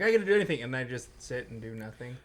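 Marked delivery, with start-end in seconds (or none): 0.0-0.6 mock excitement. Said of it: "I'm like".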